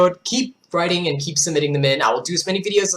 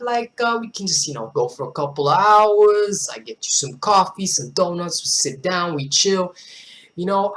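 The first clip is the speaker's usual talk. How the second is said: put-on laid-back street accent; easygoing street-accent flirting; 3 semitones higher than usual. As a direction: chat someone up in a street accent. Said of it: "I pull off that street accent".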